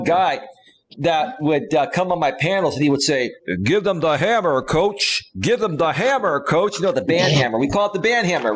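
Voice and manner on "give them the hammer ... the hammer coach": imitated Southern twang, pitched up a little; Southern accent. Host imitating a former panel guest's catchphrase, Southern accent. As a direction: lightly mimic a Southern regular's catchphrase. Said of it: "he had that accent".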